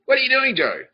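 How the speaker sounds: high, loud yell of mock disbelief; mock scolding shout. Comic confronts Joe over the mess, mock scolding shout. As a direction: yell it at him in pretend outrage.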